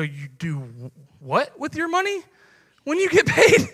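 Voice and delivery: pastor playing a baffled non-believer, hammed-up shock; mock disbelief.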